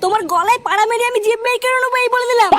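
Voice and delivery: angry retort. Acted. Wife quarrels with husband over food.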